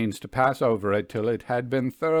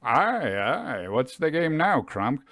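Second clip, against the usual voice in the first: put-on cheery young gentleman Harry; 2 semitones higher than usual. Harry teasing Crump.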